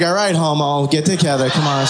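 father voice. Retold or imitated. Father brushing off his sobbing son, low gruff. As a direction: grumble it low like an embarrassed dad. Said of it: "He was like".

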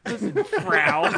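high, drawn-out mock Valley Girl accent; giggly, stretched-out Valley Girl accent. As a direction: laugh through a slow Valley Girl impression. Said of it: "She's like".

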